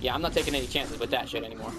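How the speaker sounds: normal talking voice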